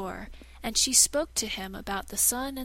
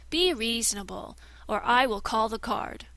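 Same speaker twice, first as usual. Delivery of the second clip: cold threat; 5 dB louder than usual. Acted. Shadow threatens.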